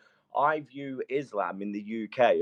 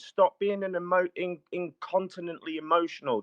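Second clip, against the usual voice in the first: angry shout; 6 semitones higher, 4 dB louder than usual. Real, not acted. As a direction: shout him down to get the floor back. Heated argument, being interrupted.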